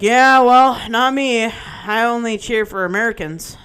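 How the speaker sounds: mock the heckler's blunt pronouncement; imitating a dismissive man. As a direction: mimic a bar know-it-all declaring his loyalty. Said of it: "That's what he said".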